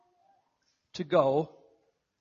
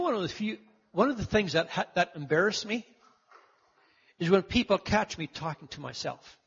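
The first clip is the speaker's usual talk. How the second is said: ordinary delivery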